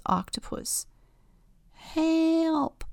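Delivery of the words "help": high little birdlike cry for help; tiny high squeak of help; cheep. Acted. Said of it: "cheeps Bird".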